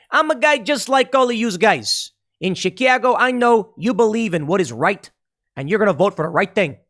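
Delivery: over-friendly rally voice saying yous guys; pandering politician. Retold or imitated. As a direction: ham up a candidate faking the local talk. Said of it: "put on a Southern drawl and make it seem like you talk like them".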